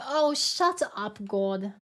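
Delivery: slow, drawn-out mock scolding; playful shut up on request. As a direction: drag out the oh like a teasing scold. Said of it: "Tell us to shut up one more time".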